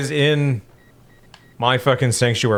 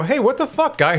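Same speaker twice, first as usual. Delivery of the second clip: pitched way up, indignant, mock yell; retold angry yell; 13 semitones higher than usual. Retelling how he yelled at the smoking repairman, high indignant mock yell. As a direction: call him out like he's crazy. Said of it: "And I go".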